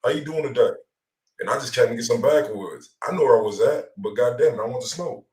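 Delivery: usual speaking voice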